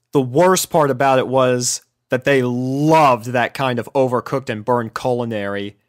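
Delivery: ordinary delivery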